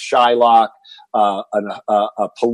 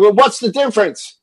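retold scream; 8 semitones higher than usual. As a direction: shout it at your dad, half-acted. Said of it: "I screamed".

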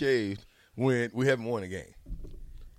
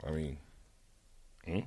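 lower, softer, evasive mumble; Jay Foreman impression; 7 semitones lower, 14 dB quieter than usual. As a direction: lightly play a dodging friend. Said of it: "my Jay Foreman impression".

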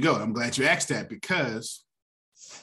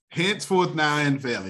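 put-on higher, louder, intoned like an old church elder; church elder benediction; 4 semitones higher, 4 dB louder than usual. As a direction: draw it out like an elder closing a service. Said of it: "how the old folks say it in church".

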